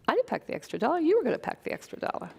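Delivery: a husband's snippy comeback, rising high and fast; husband snapping back over the dollar, mock indignant; retorting husband. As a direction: fire it back at her, defensive.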